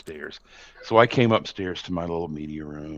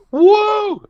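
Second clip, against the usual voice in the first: much higher, louder whoop of joy; loud woo yell; 10 dB louder than usual. Retold or imitated. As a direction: let out a big game-winning woo. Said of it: "and I yelled".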